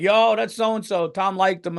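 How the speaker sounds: mock bored crowd. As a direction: shrug it off like the crowd did.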